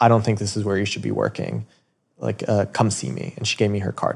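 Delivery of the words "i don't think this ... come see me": mock blunt, slightly rude, swooping brush-off. Retelling what a customer said while leaving: imitating a rude remark. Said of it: "a little bit, like, like, ruder".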